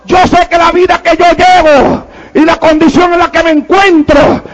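mildly mournful preacher's retelling; retold tearful plea. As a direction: plead as she did, without real sobs. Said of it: "Y llorando me dice".

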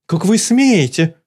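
high outraged cry; outraged yell. Acted. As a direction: scold haughtily. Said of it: "завопила Лулу".

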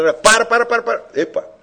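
high, loud pleading 'para, para'; girl in bed begging the man to stop, high and loud; urgent stop. Retold or imitated. Girl in motel bed says stop.

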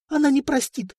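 high, frightened tearful warning; plead, close to tears. Acted. Princess pleading near tears.

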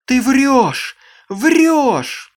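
shrill, very loud, high accusing scream. Acted. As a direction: scream the accusation at full force. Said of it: "закричала она".

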